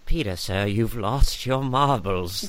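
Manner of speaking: slow, drawn-out old-film impression; Hook film character. Quoting Hook to co-host, slow character voice. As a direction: stretch each word out deliberately. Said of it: "reminds me of Hook when he's like".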